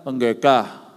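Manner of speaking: words slurred through an open mouth; mumbled mouth open. Retold or imitated. Patient at the dentist, mouth held open, mumbling. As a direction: try to say pendeta with the dentist's tools in. Patient answers mid dental work.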